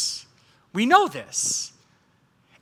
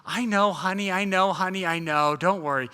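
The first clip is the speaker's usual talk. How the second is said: mock patient wife; 3 semitones lower, 4 dB quieter than usual. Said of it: "Sarai was sitting there going".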